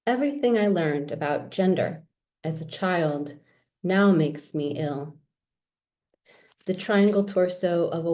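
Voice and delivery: measured poetry reading with pauses between phrases. Acted. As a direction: read the poem aloud, line by measured line. Reads own poems aloud.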